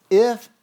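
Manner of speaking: "if" hit loud and held; emphatic stress. Shown as a demonstration. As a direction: lean hard on the word "if", drawing it out. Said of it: "so you know that I'm emphasizing".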